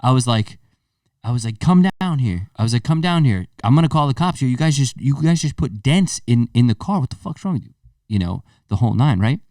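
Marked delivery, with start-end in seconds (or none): 1.6-7.7 freaking out. Retold or imitated. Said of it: "freaking out on him".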